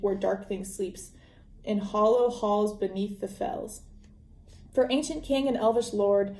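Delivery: put-on measured recital of an old ballad; verse read aloud. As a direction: read it as rhyming verse, evenly paced. Reads the dwarves' song aloud.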